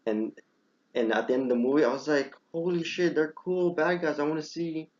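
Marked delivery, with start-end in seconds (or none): 2.5-4.9 hushed awe, pitched higher; retold excitement. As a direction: act out a wowed viewer's reaction. Retold excitement at end credits.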